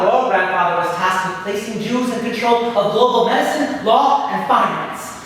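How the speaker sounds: high, loud, ringing demon voice; booming Satan. Retold or imitated. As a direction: boom out a grand devilish greeting. Satan questions Naphtali.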